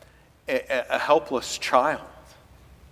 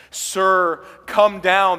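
desperate plea; 4 semitones higher, 6 dB louder, much slower than usual. Acted. Official crying out to Jesus.

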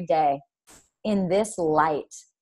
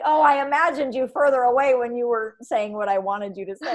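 laughing quote; 3 semitones higher than usual. Retold or imitated. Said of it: "You're like".

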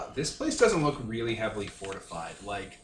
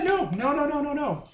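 usual speaking voice

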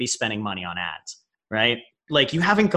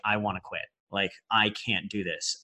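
defeated despair; 5 semitones lower, 8 dB quieter than usual. Retold or imitated. Voicing a despairing listener.

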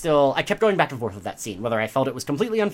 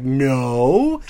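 loud, emphatic mock outrage; hypothetical outburst with a drawn-out ending; indignant refusal; 2 semitones higher, 4 dB louder, slower than usual. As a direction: push back hard, playing indignant. Acts out her indignant refusal.

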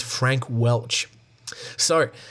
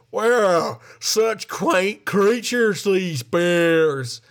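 charmed lady; 5 semitones higher, much slower than usual. Acted. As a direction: gush over the bears like a charmed tourist. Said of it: "She can have that voice, it's fine".

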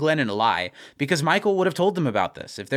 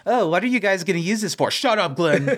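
higher-pitched mimicry, then a curt dismissal; mocking silly voice; 5 semitones higher than usual. The speaker mimics Glenn's question to shut him up, mocking silly voice. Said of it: "The voice that he uses".

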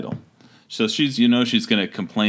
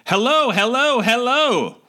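squawked much higher like a parrot; mock the guard as a parrot would; parrot imitation; 14 semitones higher, 3 dB louder than usual. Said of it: "like a parrot".

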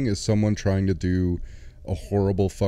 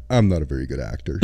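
mock confession; 6 semitones lower than usual. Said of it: "leans across the table and goes".

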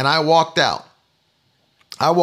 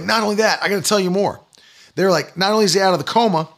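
mildly excited retold news, pitched up; lightly acted eagerness to tell more; imitating excited caller; 3 semitones higher, faster than usual. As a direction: hurry out the news like an eager friend. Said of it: "all excited".

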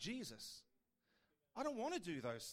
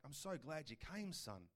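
gentle fatherly God. Acted. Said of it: "the Father's like".

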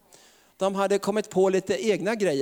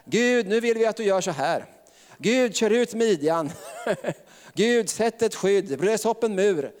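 mock bossy prayer; 4 semitones higher than usual. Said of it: "Innan tror jag de ropade så här".

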